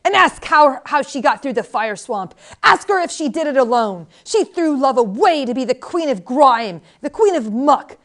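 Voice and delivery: unquieted tirade. A narrator's reading. Old woman will not be quieted, rails at the queen, yelling. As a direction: rail on loudly, hammering each insult. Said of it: "would not be quieted".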